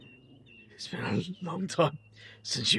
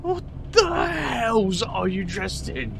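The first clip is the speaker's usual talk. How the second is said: incredulous outburst; 6 semitones higher, slower than usual. Acted. Reacting to outfit.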